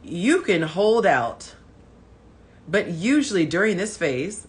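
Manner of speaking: slow put-on guy voice. Shown as a demonstration. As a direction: read it like a dude, slowly. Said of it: "so I gotta get my guy voice".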